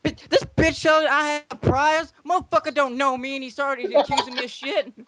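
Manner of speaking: high-pitched comic outrage; mock-offended, squawking complaint; indignant outburst. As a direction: protest an accusation in hammed-up disbelief. Teddy Long character acts outraged at accusation.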